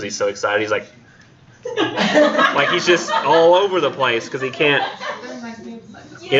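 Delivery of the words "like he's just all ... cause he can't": giggling through the words; laughing. Real, not acted. Teacher amused by the poet's excitement, laughing. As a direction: laugh as you explain it.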